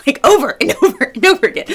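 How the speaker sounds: laughing through it, words spilling out fast and high. Real, not acted. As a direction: giggle your way through the repetition. Toddler repeating snack request.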